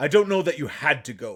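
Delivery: disapproval creeping in. A man answers someone who says they had to go, in a disapproving tone. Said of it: "that same old tone of, like, his disapproval".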